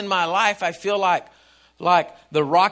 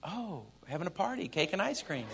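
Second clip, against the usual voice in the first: mock cheerful; 2 semitones lower, 14 dB quieter than usual. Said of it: "it's not like".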